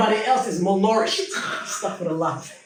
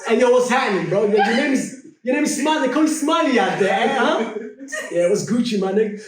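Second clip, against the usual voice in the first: higher-pitched mock American gangster; American gangster accent; 3 semitones higher, 4 dB louder than usual. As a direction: swagger through an American gangster impression. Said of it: "gangster accent".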